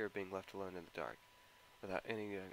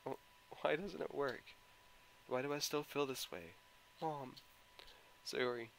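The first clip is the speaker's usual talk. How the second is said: higher, louder pleading through tears; crying out; 6 semitones higher, 3 dB louder than usual. Acted. Bleeding alone, begging her loved ones: crying, higher pleas. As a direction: sob out the names, begging. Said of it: "burst into tears".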